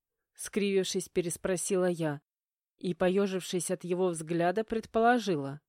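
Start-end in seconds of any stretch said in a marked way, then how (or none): none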